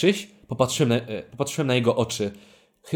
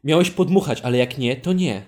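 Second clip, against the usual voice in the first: offended sulk, louder; mock-offended sulk; sulky; 4 dB louder than usual. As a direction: pout like you're hurt. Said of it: "jakbym widział cię w prawdziwym życiu obrażonego".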